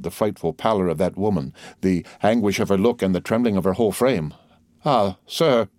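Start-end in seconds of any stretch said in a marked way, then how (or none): none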